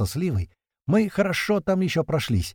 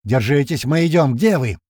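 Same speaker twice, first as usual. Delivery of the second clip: shout; 2 semitones higher, 6 dB louder than usual. A narrator's reading. Urgent radio shouting.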